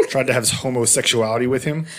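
giggling through the words; laughing while asking. Real, not acted.

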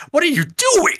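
very high shrieking mock voice; hammed-up falsetto Dixie; imitating Dixie. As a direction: shriek it like a frantic boss. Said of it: "Dixie is all like".

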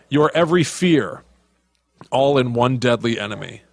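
lightly dramatic announcer, lifted on key phrases; trailer tagline read. Acted. Podcast host reading horror film taglines, mildly dramatic announcer. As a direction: read it like movie taglines, pausing between phrases.

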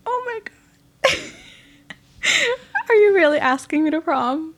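squealing, high and loud; thrilled. Real, not acted. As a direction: gush with delight. Asked to prom, thrilled.

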